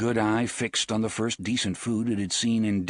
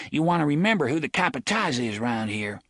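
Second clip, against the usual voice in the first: put-on bossy boy; 5 semitones higher, faster than usual. Bully boasts to younger boy.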